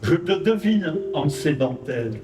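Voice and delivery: récitation de poème. Acted. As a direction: lecture posée et rythmée d'un poème. Récite son poème avec musique. (poème déclamé doucement sur la musique)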